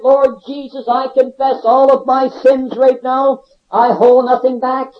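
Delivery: emphatic confession, word by weighty word; fervent prayer. Retold or imitated. Convict confessing to Jesus on his knees, fervent prayer. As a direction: pray it out slowly with firm conviction.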